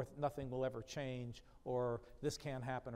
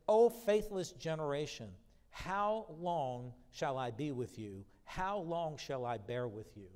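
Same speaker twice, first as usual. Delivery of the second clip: mild exasperated rebuke, loud start then slowing; slow, weighty, mildly irritated reproach; a little perturbed; 4 dB louder, slower than usual. Acted. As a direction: let irritation show, then drag out the questions. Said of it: "probably a little perturbed about it".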